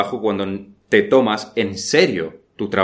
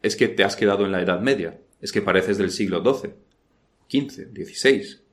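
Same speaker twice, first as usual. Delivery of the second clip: scoffing mock of old-fashioned ways; mild ridicule from scornful peers. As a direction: sneer it like a worldly critic.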